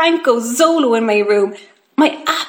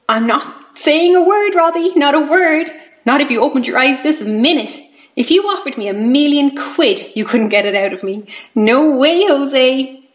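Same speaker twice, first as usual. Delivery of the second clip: lively, higher-pitched start, playful refusal; teasing secretive carer; 3 semitones higher than usual. Acted. Tracy teasing Robbie about keeping the surprise secret, playful. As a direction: tease him with a secret you won't tell.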